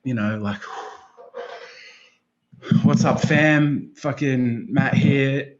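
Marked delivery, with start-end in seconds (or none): 2.8-5.5 drawn-out, punchy hello to the followers; upbeat post greeting. Retold or imitated. Man reciting his post to followers, upbeat greeting. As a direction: stretch it out like hailing your crew.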